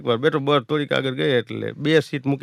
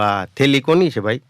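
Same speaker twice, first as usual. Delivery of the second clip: asked again, slow and deliberate; slow second ask; slower asking; 4 dB louder, slower than usual. Retold or imitated. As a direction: spell the question out slowly. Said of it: "એટલે મેં બીજી વાર પૂછ્યું".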